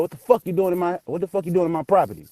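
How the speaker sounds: high, fast angry demand. Retold or imitated. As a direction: snap at the intruder. Angry father at the door.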